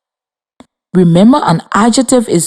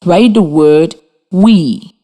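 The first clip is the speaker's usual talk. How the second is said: dictation pace; slower than usual. Shown as a demonstration. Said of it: "Number thirty-six".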